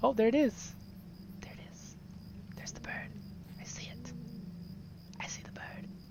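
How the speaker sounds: soft, hushed whisper under the breath. Spotting a bird while playing a game, whispering. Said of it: "I don't know why I'm whispering".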